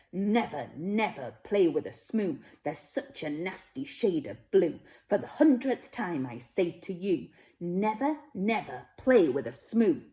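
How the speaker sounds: stern grandfather, mildly angry; angry warning. Acted. Grandfather scolding the child about the Smoos, mildly angry. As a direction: wag a finger and scold firmly. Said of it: "shaking his fist as he angrily said".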